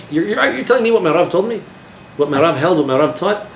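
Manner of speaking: mock outrage at a misquoting student; indignant outburst.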